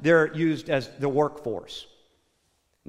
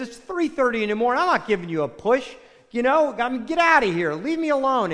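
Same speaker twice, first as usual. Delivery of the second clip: mildly annoyed, higher-pitched acted brush-off; irritated refusal; 5 semitones higher than usual. Woken husband sends stranger away, mock irritation. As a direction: act out an exasperated husband, lightly.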